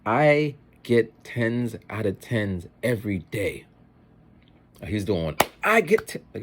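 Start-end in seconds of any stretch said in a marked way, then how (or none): 0.1-3.7 put-on Jamaican accent. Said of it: "think your best Jamaican accent". 5.6-6.2 high, loud imitation of a boasting kid; sassy little boy. Little boy boasting about his marks, imitated sass. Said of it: "his mannerism".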